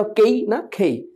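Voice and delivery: খেই with a puff of air on খ; aspirated K. Shown as a demonstration. Teacher contrasting কেই with aspirated খেই. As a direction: breathe out hard on খেই, not কেই. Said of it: "কেটা হবে খেই".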